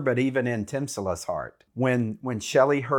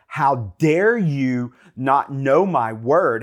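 disgusted rebuke. Pretend. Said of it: "in disgust".

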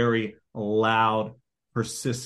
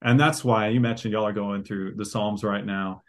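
ordinary talk, nothing marked

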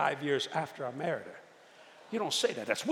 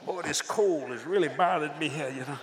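fake casual. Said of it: "So I tried to fake it".

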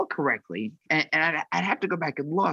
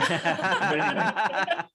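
laughing; 5 semitones higher, much slower than usual. Real, not acted. Wrapping up with a laugh.

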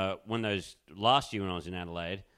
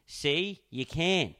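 lightly voiced drunk girl, higher pitch; a hint of a tipsy girl proving her point; 7 semitones higher, 4 dB louder, much slower than usual. Co-host quotes the girl on the scooter, light high drunk-girl voice. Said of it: "this drunk girl goes".

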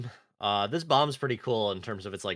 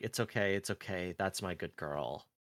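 tender; 3 semitones lower, 7 dB quieter than usual. Retold or imitated. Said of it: "starts crying and is like".

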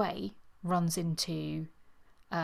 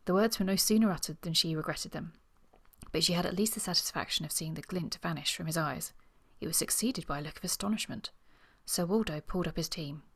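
measured novel reading, characters lightly acted; story narration with dialogue; faster than usual. A narrator's reading. Reading Sir Waldo and Miss Trent's quarrel to listeners, measured story narration. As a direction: read the romance aloud, lifting the dialogue a little. Reads novel excerpt aloud.

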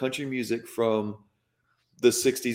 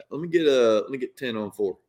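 jacked-up Southern accent. Shown as a demonstration. Customer paying at a podunk gas station, Southern accent. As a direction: put on a thick Southern accent. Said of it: "you must get that Southern accent".

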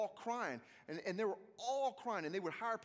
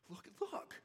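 whispered look; 4 semitones higher than usual. Retold or imitated. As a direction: breathe the words like a hushed reveal. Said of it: "he was just like".

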